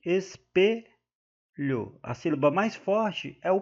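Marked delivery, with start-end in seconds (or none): 0.0-0.9 "espelho" slowly as es, pe, lho; split into syllables. Shown as a demonstration. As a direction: pause before the last syllable of "espelho". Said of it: "Aqui, ó".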